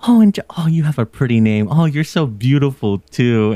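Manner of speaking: breathy gush that starts with a whisper; doting grandma flattery. Retold or imitated. Grandma flattering the vendor girl, sweetly doting. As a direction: flatter her like a sweet old auntie. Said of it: "She's like".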